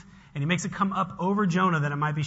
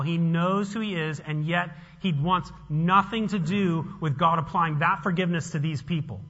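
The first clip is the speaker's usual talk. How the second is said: ordinary talk, nothing marked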